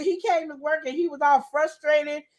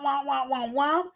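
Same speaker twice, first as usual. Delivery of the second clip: imitated nagging womp; 3 dB quieter than usual. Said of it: "all he hearing is a womp".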